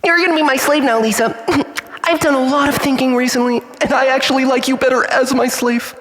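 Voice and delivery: high, gleeful mad cackling voice; gloating at Lisa as a cackling villain; maniacal villain. Acted. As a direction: gloat shrilly like a madman.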